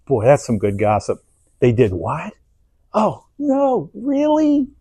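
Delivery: relishing gossip, rising to a high squeal on really; gossip lover. Retold or imitated. A gossiper hearing scandal, delighted and gushing. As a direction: savour the juicy news. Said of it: "the type of person who goes".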